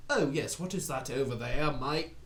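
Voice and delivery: put-on British accent sliding into Australian; British turning Australian accent. Recalling a broken stage accent, British turning Australian. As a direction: start British, drift into Australian. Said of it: "turned all my British accent into an Australian accent".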